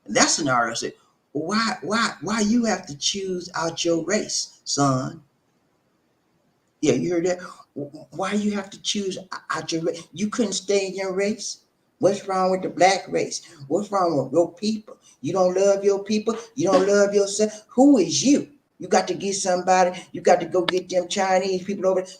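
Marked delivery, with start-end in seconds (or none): 1.3-5.2 slow, higher-pitched reproach; drawn-out, disapproving question; reproachful relative. Acted. Acted relative challenges his choice. 7.8-22.1 higher, insistent string of challenges; indignant, pressing questions; reproachful relative. Acted. Acted relative berates his choice.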